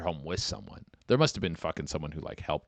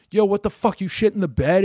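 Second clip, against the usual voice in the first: loud, high-pitched outraged confrontation; accosting; 11 semitones higher, 8 dB louder than usual. Acted. Boyfriend wakes drunk girlfriend who soiled the bed, accosting. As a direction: accost a sleeping partner, voice jumping up loud. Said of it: "Part of the problem was you accosting her".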